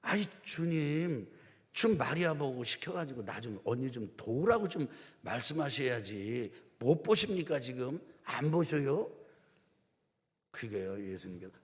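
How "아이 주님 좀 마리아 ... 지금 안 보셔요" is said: a mock-indignant sister nagging the Lord; Martha complaining. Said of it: "예수님한테 화가 났어요".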